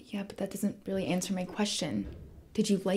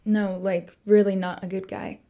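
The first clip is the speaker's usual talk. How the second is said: louder, insistent correction on "really"; emphatic insistence; 9 dB louder than usual. Acted. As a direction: REALLY hit hard and loud. Insists after being brushed off.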